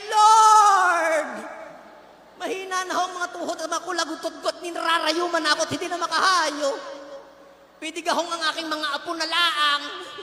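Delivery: a loud shouted "Lord", then a loud complaint; loud old-timer plea. Retold or imitated. Senior begging off the Lord's call, loud old-timer plea. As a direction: bellow the excuse like an aching old man.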